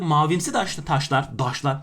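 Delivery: Ankara-accented slip from taş to "daşlar". Real, not acted. Teacher's inner Ankara local slips out, Ankara accent. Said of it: "İçimdeki Ankaralı'yı bir anda arkadaşlar maalesef dışa vurdum".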